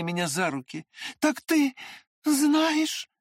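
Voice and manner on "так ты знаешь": high, loud, stricken; anguished cry. A narrator's reading. Liza realizes he knows, anguished cry. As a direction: cry out in dismay. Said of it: "вскричала она".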